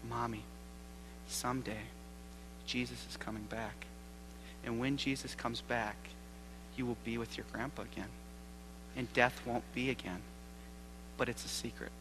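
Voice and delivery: soft, confiding child, lightly imitated; hushed, with pauses, as if sharing a secret; stage whisper. Boy consoling his crying mommy about her grandpa, hushed stage whisper. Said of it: "in a stage whisper".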